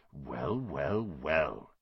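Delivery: low, soft menacing whisper. Acted. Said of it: "he whispered".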